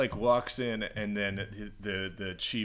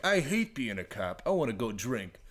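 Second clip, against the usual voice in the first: put-on tag-less old cop; 4 semitones higher than usual. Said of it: "those old dudes are like".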